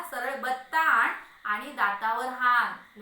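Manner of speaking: loud, slow, drawn-out order; exasperated demand. Acted. Husband telling wife to hit his tooth, exasperated demand. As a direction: stretch and hammer out the command.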